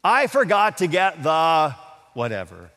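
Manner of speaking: lightly hammed-up oops voice; mock exclamation. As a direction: playfully act out forgetting an ingredient. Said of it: "you'll hear something like this".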